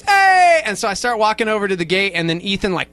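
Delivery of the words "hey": retold shout. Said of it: "and he goes".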